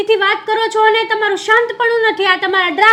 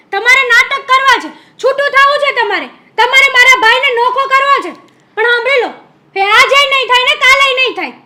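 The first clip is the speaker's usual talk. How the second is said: heated and louder, pressing every line; angry sister-in-law refusing to back down; angry accusation; 2 semitones higher, 4 dB louder than usual. Acted. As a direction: lay down the law to your bhabhi. Sister-in-law's angry quarrel.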